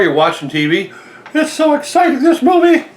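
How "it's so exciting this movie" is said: high, giggly laughing voice. Real, not acted. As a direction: laugh through the words. Joking about watching TV.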